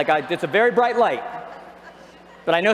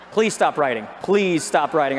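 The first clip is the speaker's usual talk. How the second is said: mock pleading; 5 semitones lower than usual. Real, not acted. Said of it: "I feel like a terrible person".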